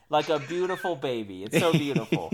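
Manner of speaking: mock Trump praising something as beautiful; Donald Trump. Mocking Trump while gushing about airstrikes, lightly voiced. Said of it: "I feel like Donald Trump when I say beautiful".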